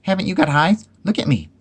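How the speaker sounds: very high, loud protest; shouting. A narrator's reading. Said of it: "shouted Piglet".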